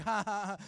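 spoken ha-ha laugh; mock laughter. Preacher mimicking someone here who is laughing, mock laugh. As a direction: imitate someone laughing in the audience. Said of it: "like, laughing. They're like".

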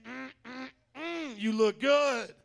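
drawn-out flirty purr; flirty compliment. Pretend. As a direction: say it like you're checking someone out. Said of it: "Look at your neighbor saying".

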